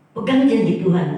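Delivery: pressed out loud, falling firm; preaching emphasis. Real, not acted. Pastor urges the congregation, loud and firm. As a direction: drive the promise home. Pastor urging the grieving listener.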